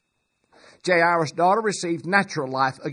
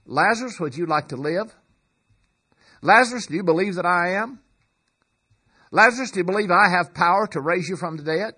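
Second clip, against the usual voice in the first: mock gentle asking; 4 dB louder, faster than usual. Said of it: "he does not say".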